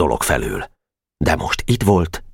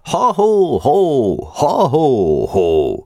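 war cry; 10 semitones higher, much slower than usual. Acted. The Pál street boys shouting their password on the stairs. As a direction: bellow the gang's password. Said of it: "jelszavát harsogták".

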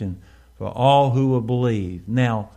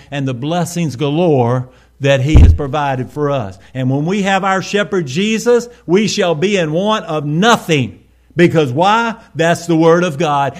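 louder, emphatic preaching; raised pulpit voice; impassioned preaching; 5 dB louder than usual. Real, not acted. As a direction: drive it home to the congregation. Preaching with rising force.

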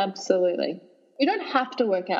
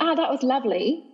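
lightly put-on English accent, a bit higher; mock posh accent; 5 semitones higher than usual. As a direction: play it up like a posh Brit on a stroll. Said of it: "did you hear my accent come through".

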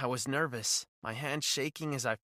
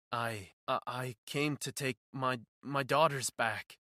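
lower, hesitant stammer; 5 semitones lower than usual. Acted. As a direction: stammer it out nervously. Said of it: "he stammered".

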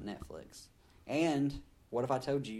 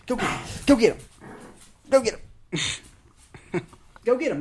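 egging on; 10 semitones higher, 7 dB louder, faster than usual. Real, not acted. Urging someone on.

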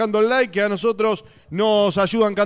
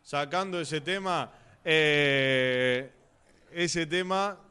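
holding back laughter; 4 dB quieter, much slower than usual. Real, not acted. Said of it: "Se ríe, nada, se ríe".

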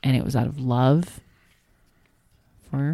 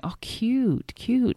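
put-on toddler voice; 8 semitones higher, much slower than usual. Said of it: "he kept going".

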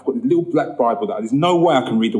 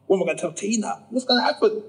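worried inner voice; 7 semitones higher, 5 dB quieter than usual. Retold or imitated. Young man panicking about Tina.

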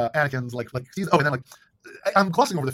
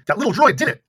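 excited cheer; 7 semitones higher, 8 dB louder than usual. Retold or imitated. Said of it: "they say".

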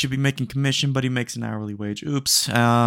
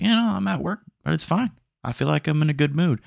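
chipper self-quote; 7 semitones higher than usual. Retold or imitated. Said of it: "And I was like".

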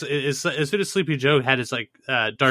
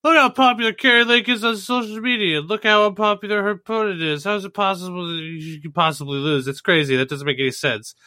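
higher, disbelieving complaint; whiny Twitter fan; 5 semitones higher than usual. Retold or imitated. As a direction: whine like a sore loser online. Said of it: "people were just like".

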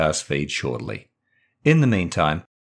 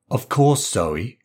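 snapping; 3 semitones higher, slower than usual. Acted. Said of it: "Megan snaps".

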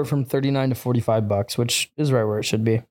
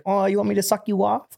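movie quote; 7 semitones higher than usual. Retold or imitated. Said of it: "he's like".

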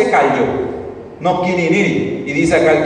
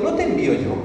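pregunta enfática; 10 semitones higher, 6 dB quieter, faster than usual. Shown as a demonstration. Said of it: "el escritor agregó diciendo".

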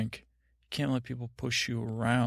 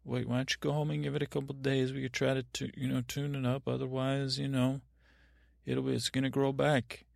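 gentle barber to a woman; 2 semitones higher than usual. Retold or imitated. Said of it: "For a woman, I'd say".

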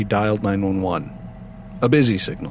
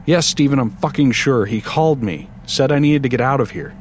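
angry; 4 semitones higher than usual. Acted. Sandy angrily insisting.

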